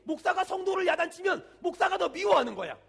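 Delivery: loud insistent devil voice, hammering the lie; devil's taunt. Retold or imitated. Devil telling scolded believers they're hated, loud taunting. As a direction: bark it like the devil whispering turned shout. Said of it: "이렇게 가르쳐요".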